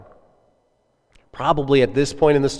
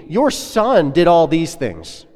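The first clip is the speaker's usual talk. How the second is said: venomous accusation; 3 semitones higher, much slower than usual. Acted. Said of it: "full of kind of just venom".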